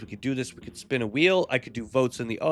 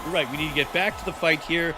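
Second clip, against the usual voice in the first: wrestling announcer; 2 semitones higher than usual. Pretend. Commentator asking Opie about tonight's fighters, wrestling announcer. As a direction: lively fight commentary, names punched.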